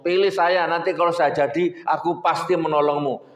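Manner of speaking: lightly voiced campaign promise, close to plain; a touch of a politician's easy promise; a hint of a candidate. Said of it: "Kalau caleg yang ngomong". (caleg berjanji kepada pemilih, sedikit dibuat-buat)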